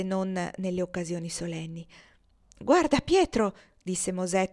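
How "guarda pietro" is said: high, loud cry of delight; gleeful. Acted. Moses shows Pietro the breakfast, gleeful and loud. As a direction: Moses crowing with joy at the food. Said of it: "tutto gongolante di gioia".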